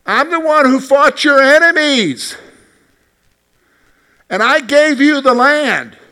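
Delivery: a wounded God reproaching his people. Acted. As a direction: thunder it down as the Lord reminding them. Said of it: "here's what God is saying".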